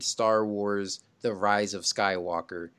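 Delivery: slow, low trailer-style title read; dramatic title reveal. Shown as a demonstration. Host announcing the film title, slow and dramatic. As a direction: draw the title out like a movie opening. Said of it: "open as the title comes up".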